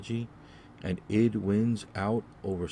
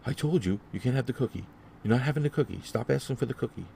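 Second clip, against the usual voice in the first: exasperated mother; 6 semitones higher than usual. Retold or imitated. Mother in bakery tells son no cookie, exasperated raised voice. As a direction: snap at the child, voice climbing. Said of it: "She goes".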